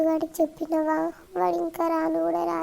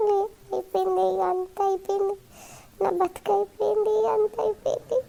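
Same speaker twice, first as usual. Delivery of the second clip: tearful lament, climbing higher; acted crying; 4 semitones higher than usual. Girl despairing over her dying mother, crying lament. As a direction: wail it hopelessly, pitch rising with each phrase. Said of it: "ఏం కాదు ఏడవకు".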